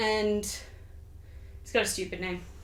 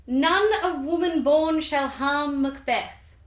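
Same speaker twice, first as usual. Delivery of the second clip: slow, higher, portentous intoning; ominous prophecy; 5 semitones higher, 3 dB louder, slower than usual. Acted. Teller intoning the witches' last prophecy, slow and ominous.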